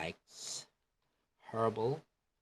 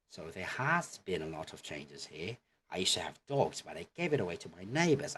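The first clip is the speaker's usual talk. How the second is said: casual quick speech; faster than usual. Shown as a demonstration. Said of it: "the manner of how they speak".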